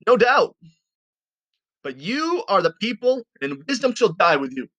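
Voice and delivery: sarcastic mock concession, starting high and dropping back. Job answering his friends, fed up and sarcastic. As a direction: concede it with exaggerated, sarcastic certainty. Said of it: "You can sense his sarcasm here".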